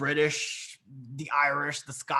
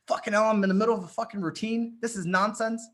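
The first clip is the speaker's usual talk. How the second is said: retold exasperation; 5 semitones higher, faster than usual. Retells own exasperation at interruption.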